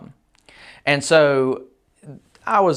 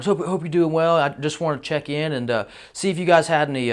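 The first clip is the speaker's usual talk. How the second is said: super polite; 4 semitones higher than usual. Retold or imitated. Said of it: "he's super polite".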